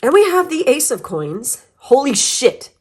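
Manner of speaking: talking around a throat lozenge; words round a cough drop; cough drop in mouth. Real, not acted. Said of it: "I have a cough drop in my mouth".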